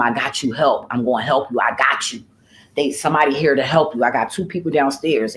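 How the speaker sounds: low retold comforting voice; reassuring. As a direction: gently promise help, pitched low. Retold reassuring of the man upstairs.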